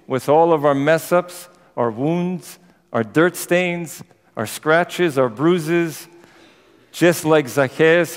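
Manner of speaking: slow, earnest prayer with emphatic, measured phrases; closing prayer. Real, not acted. Preacher asking God to give us strength, earnest closing prayer. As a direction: build the prayer phrase by phrase, then settle on Amen.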